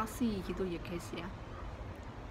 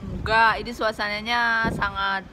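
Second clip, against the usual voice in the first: shouting over wind; 7 dB louder than usual. Real, not acted. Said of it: "anginnya sangat gede banget".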